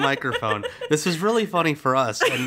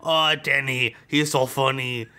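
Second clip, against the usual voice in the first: mock writer voice; slower than usual. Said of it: "writers ... sumo wrestlers".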